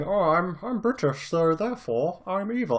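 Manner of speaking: high, hammed-up British villain accent; mock British accent. Podcaster mocking British bad-guy casting, mock British accent. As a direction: put on a silly, high-pitched British accent. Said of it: "I don't know what that accent was".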